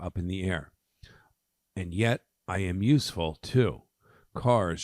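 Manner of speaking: measured, lightly dramatic poem recital; poem reading. Acted. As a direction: read verse aloud with emphasis. Reads a poem aloud.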